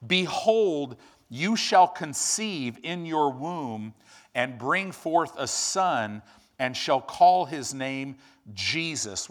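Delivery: slow, solemn proclamation; stately slow Bible reading; scripture reading. Acted. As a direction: proclaim it like the angel's announcement. Reading Luke aloud.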